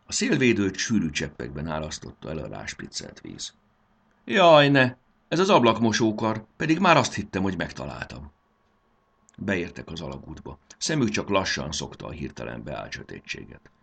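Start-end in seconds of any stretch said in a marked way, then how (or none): 4.2-8.3 high, loud wail of frustration; exasperated, raised-pitch outburst; dismayed. A narrator's reading. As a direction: cry out as if everything went wrong. Boy hits wrong switch, dismayed.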